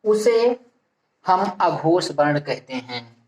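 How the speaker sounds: word by word with long pauses; dictation. Real, not acted. Teacher giving students a definition to write down, measured dictation. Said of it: "परिभाषा के रूप में लिख लिया जाए".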